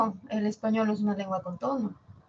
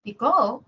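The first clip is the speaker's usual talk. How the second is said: "pico" louder, rising and then falling; varied tone; 5 dB louder than usual. Shown as a demonstration. Teacher tries a third tone on the word, rise-fall. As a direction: swoop up and back down on "pico". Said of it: "así lo digo con tonos y cambia".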